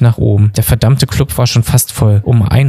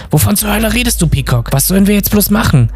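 high-pitched, flustered questioning; panicked exasperation; 10 semitones higher than usual. A narrator's reading. Bob turns on Peacock over their problem, panicked.

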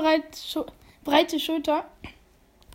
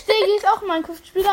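laughing; 4 semitones higher, 3 dB louder, much faster than usual. Real, not acted. Laughing while explaining.

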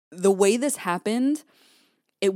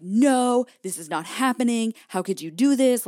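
loud, higher-pitched imagined outburst; rehearsed showdown, voice raised high; dramatic confrontation; 5 semitones higher, 6 dB louder than usual. Retold or imitated. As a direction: confront her in mock outrage. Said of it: "totally a dramatic situation".

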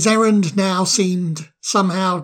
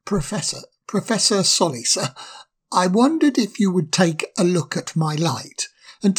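higher, halting and embarrassed; anxious young fire sprite; 3 semitones higher than usual. Acted. Fire sprite nervously asks the owl to dim his light. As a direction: plead shyly for a fix.

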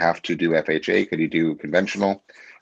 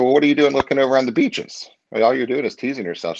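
higher-pitched incredulous telling-off; mock exasperation, pitched up to chide her; retold scolding; 7 semitones higher than usual. Agent retells chiding his son's teacher for house-hunting early, incredulous scolding.

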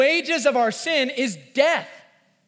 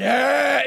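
gloating; 4 dB louder than usual. Pretend.

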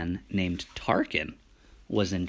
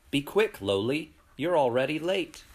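urgent character voice; 5 semitones higher than usual. Acted. Character urges Lowly along.

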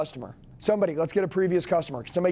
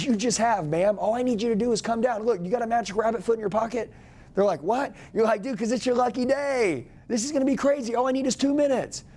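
high, eager sales pitch, pushing hard; hyped-up salesman pitch; 4 semitones higher than usual. Shown as a demonstration. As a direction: pitch it like it's their lucky day.

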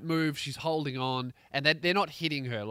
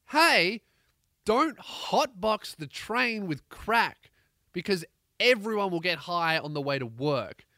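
mock yelling; 3 semitones higher, 4 dB louder than usual. Acted yell of train passengers.

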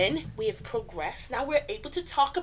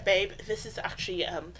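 soft voice; 5 semitones lower, 8 dB quieter than usual. Shown as a demonstration. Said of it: "Do it in a soft voice".

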